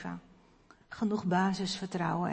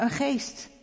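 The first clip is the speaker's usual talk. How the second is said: a mild, higher mock cry of fright; frightened cry; 5 semitones higher than usual. Disciples seeing Jesus on the water, mild high frightened cry. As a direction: lightly act the disciples' scared outcry. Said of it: "En ze schreeuwden het uit van angst".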